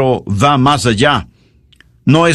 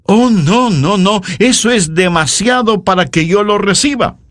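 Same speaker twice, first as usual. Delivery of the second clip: lightly acted overwhelmed servant, higher pitched; exclaimed refusal; 4 semitones higher than usual. Humble servant refusing Alexander's gift, lightly acted exclamation. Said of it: "exclamó".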